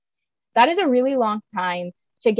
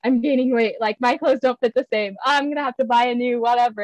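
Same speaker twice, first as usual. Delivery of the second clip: mock panic; 3 semitones higher than usual. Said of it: "were like, gasps".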